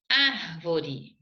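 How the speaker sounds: "Árvore" with a long, firm first A; stress on first syllable. Shown as a demonstration. Teacher showing where the accent goes, "Árvore" stressed on ÁR. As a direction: lean on the ÁR of "Árvore", let the rest fall. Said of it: "Acento agudo no A".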